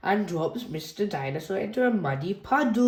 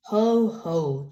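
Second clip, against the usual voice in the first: chuckle; 3 dB louder than usual. Acted. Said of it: "chuckles Daddy".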